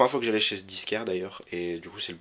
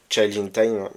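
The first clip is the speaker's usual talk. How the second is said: English title in a French accent, louder; French speaker's quick, loud first go at the English; 7 dB louder, slower than usual. Real, not acted. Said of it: "pardon pour mon accent".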